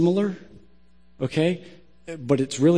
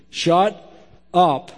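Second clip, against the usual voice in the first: blunt, spaced-out delivery; emphatic pause. Real, not acted. Preacher to would-be advice givers, blunt and spaced out. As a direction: land each word separately.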